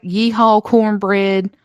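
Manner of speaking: hammed-up Southern twang; exaggerated country accent. Host mocking how she talks at home, hammed-up country accent. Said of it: "I am the biggest fucking accent morpher".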